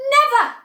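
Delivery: very high, loud single word; final triumphant insistence; emphatic never. Acted. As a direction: slam the word home. Emphatic boast.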